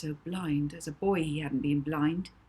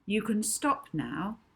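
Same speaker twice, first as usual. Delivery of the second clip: authoritative; 3 semitones higher than usual. Acted. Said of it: "said Molly authoritatively".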